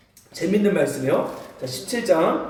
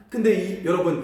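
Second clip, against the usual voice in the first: normal talking voice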